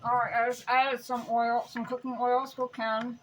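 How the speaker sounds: talking through a mouthful; words round a bite of chocolate; mouth full. Real, not acted. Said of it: "I'm talking with my mouth full".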